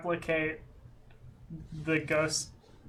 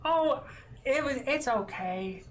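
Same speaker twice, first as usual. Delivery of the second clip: pitched-up gentle reassurance; high reassuring voice; 7 semitones higher than usual. Acted. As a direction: brush it off kindly. Keely reassures the kids.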